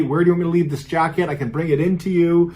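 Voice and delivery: high, loud and fast calling out; yelling. Retold or imitated. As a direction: call up to someone unseen upstairs. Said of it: "the father is yelling to her".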